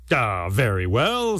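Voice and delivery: slow, drawn-out agreement; grand consent. Acted. Python agreeing to lie by the stick, grand consent. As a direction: stretch it out pompously.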